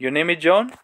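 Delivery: "John" lifted at the end; question intonation. Shown as a demonstration. Teacher drilling the question for learners, rising intonation. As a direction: let "John" climb as a question. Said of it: "बार बार practice करेंगे".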